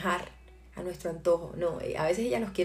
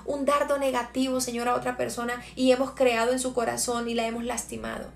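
fervent prayer. Acted. Leads a prayer. (oración ferviente, cada vez más intensa)

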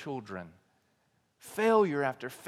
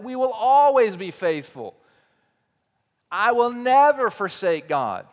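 fervent vow; 3 semitones higher, 6 dB louder than usual. Acted. Elders' vows acted out.

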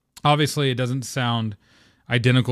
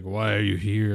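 slightly deepened hero voice; lightly imitated deep voice; deeper T'Challa. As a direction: drop the voice just a little, imitating a big dude. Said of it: "his voice gets a little deeper".

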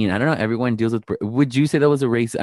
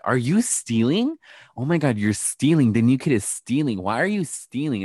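retold classmate making a scene; mock accusation; 4 semitones higher than usual. Classmate accusing the new kid of stealing, mock scandalized.

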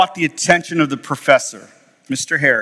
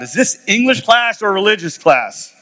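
higher-pitched protest, no real shouting; mock yell; 5 semitones higher than usual. Classmate interrupting the class discussion, half-hearted yell. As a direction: imitate a classmate calling out a complaint. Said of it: "he yells out loud".

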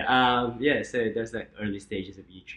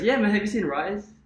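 friend's voice; 11 semitones higher, 7 dB louder than usual. Retold or imitated. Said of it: "So he goes".

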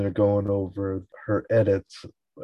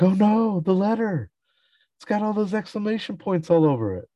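high, hurried mock panic; a hammed-up oh-no moment; 13 semitones higher, 4 dB louder than usual. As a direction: retell it like sudden dread, high and quick. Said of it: "start freaking out".

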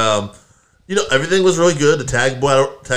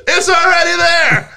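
high, slow surprised discovery; 5 dB louder, slower than usual. Real, not acted. Host finds Spanish broadcast already posted, surprised and high. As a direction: sound amazed that it's already there.

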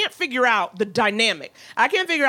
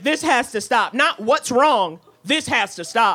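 kindergarten teacher; slower than usual. Retold or imitated. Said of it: "like a kindergarten teacher".

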